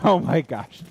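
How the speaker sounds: laughing. Real, not acted. Laughing at a joke.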